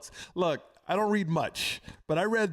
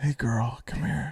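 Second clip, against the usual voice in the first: hushed whisper; 3 semitones lower than usual. Calling someone over to come here, in a whisper. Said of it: "They want the whisper".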